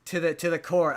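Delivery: lightly voiced Southern dad giving up his rights; hint of a Southern accent. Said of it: "I don't know why I keep giving him a southern accent".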